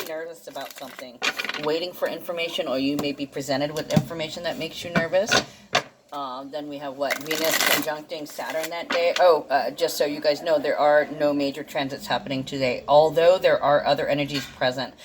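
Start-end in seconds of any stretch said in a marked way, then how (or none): 6.1-14.9 speaking around a tooth problem; words slurred by sore teeth; talking funny from sore teeth. Real, not acted. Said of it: "why I'm talking funny, I'm having an issue with my teeth".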